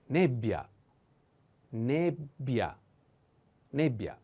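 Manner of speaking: nebbia stressed on e with double b; teaching repetition. Shown as a demonstration. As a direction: model nebbia slowly. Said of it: "The accent is on e".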